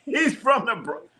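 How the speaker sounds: high, laughing through the words; giggly disbelief. Real, not acted. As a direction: laugh it out at your own lucky guess. Laughing at own wrong guess.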